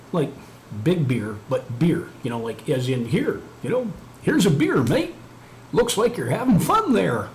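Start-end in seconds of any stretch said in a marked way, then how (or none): 3.1-7.3 high, swooping mock Australian accent; exaggerated Aussie mate voice, pitched way up; attempted Australian accent. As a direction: ham up a rough Australian accent, loud and singsong. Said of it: "some kind of Australian accent".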